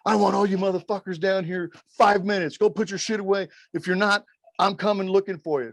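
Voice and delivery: lightly voiced Cena ordering the boys down; Cena barking orders. Cena on the bus, bossing the boys, mock bossy.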